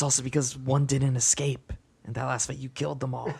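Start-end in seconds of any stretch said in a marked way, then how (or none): 2.0-3.3 laughing. Real, not acted. GM laughing at the outcome.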